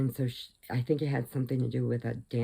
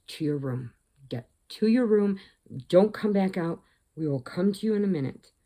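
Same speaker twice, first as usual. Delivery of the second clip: mock angry parents; 3 semitones higher than usual. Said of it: "they said".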